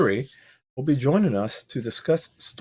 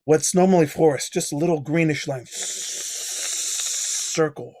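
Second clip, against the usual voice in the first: scene narration. Acted. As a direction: set the scene like a game master. Game master sets the scene.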